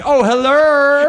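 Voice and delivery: very high slow drag falsetto; sing-song drag queen hello; Medea voice. Pretend. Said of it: "dinosaurs dressed up in drag and are like".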